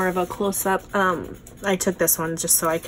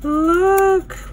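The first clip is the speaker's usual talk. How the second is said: high, louder look; much higher excited look; excited squeal; 10 semitones higher, 5 dB louder than usual. Real, not acted. Excited at butterfly.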